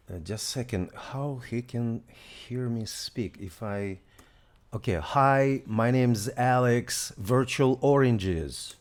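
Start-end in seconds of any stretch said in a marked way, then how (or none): 4.9-8.8 loud and clear. Real, not acted. Introducing himself to voice app.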